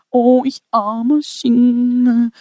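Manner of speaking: slow, whiny mock lament; mock self-pity. Preacher mocking self-pitying singles, slow whining. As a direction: drag out the poor-me sigh. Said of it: "Du denkst nur, du bist ein armer Single".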